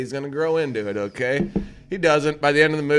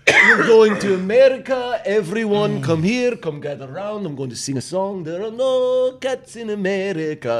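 high, loud cartoon father mouse; fed-up papa mouse declaring the move; dad mouse rallying the family, high and loud; 6 semitones higher, 3 dB louder than usual. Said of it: "And the dad's like".

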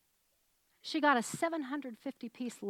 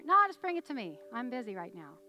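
busy mom brushing off; 4 dB louder than usual. Retold or imitated. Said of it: "being a distracted mom".

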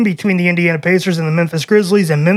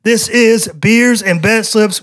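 ringmaster; 4 semitones higher than usual. Acted. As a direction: boom it out like a big-top host. Show opening announcement.

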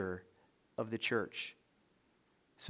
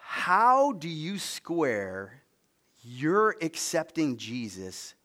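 implied scream; slower than usual. Real, not acted. Preacher challenging the congregation on a text, implied scream. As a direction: press the question slowly and forcefully. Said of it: "just put scream implied".

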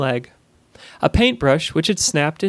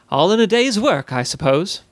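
proud goblin; 4 semitones higher than usual. Acted.

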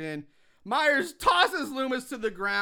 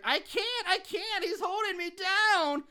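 put-on much higher, pleading girl voice; mock panic; 12 semitones higher, slower than usual. Podcaster voicing Lori pinned down, mock panic. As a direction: whimper it like a terrified girl. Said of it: "she's like".

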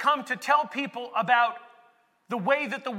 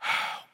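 weary sigh; 5 dB quieter than usual. Retold or imitated. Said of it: "roll his eyes as he turns his back".

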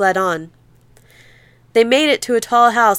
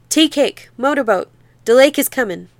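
alarmed call; 5 semitones higher than usual. Acted. Janey waking others in alarm.

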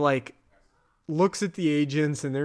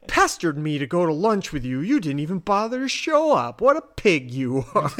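mock indignant, rising higher; indignant woman; 3 semitones higher, 3 dB louder than usual. Woman telling him off on his answering machine, mock indignant. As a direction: play at being put out and offended.

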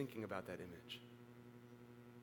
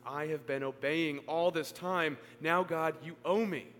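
louder, bitter demand thrown at God; a loud, resentful complaint owed its due; bitter and angry; 2 semitones higher, 6 dB louder than usual. Retold or imitated. A bitter believer loudly tells God he owes them. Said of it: "you become bitter and angry".

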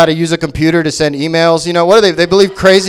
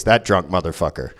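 ordinary talk, nothing marked

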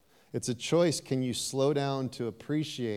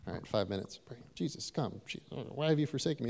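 mock hurried prayer; 7 dB quieter, faster than usual. Voicing hurried half-hearted prayer.

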